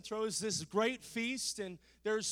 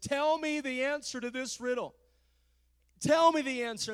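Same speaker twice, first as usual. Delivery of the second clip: nagging wife; 5 semitones higher, 5 dB louder than usual. Acted. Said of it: "she began to nag Samson".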